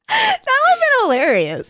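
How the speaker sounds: squealing high laughter through the words; cracking up mid-joke; laughing. Real, not acted.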